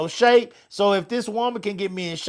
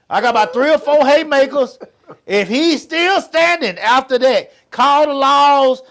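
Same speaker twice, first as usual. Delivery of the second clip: laughing loud; 6 semitones higher, 7 dB louder than usual. Acted. Comic fight plan, laughing.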